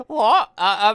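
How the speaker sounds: high, loud startled what. Acted. Offered some crepe, startled what. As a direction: caught completely off guard.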